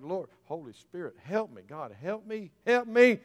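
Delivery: mild pleading, rising on the last cry; re-enacted prayer plea. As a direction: act out asking God for help, building at the end. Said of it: "the kind of prayers I pray".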